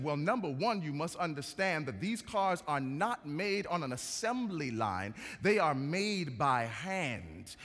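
a light mock British accent, drawing out the last words; fake British accent. Salesman boasting about handmade cars, fake British accent. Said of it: "putting on a fake British accent".

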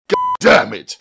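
high, forceful angry curse; angry outburst, pitch jumping up; angry growl. A narrator's reading. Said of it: "he growled".

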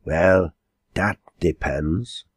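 slow, hesitant answer; mildly timid old man. Acted. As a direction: say it tentatively, pausing after the first word. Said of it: "glancing timidly at the landlady".

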